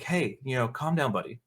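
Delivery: mock soothing. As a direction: talk him down quietly. Katara calming raging Aang.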